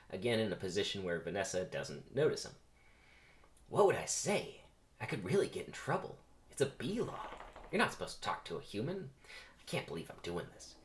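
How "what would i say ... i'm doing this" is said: anxious self-talk, pitched up then dropping away; debating with himself. Acted. Barry agonises over talking to a human, debating with himself. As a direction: worry it over to yourself. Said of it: "Begins debating with himself".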